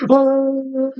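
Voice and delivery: long high retching wail; imitated puking. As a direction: mimic throwing up, drawn out and high. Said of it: "You could puke on them".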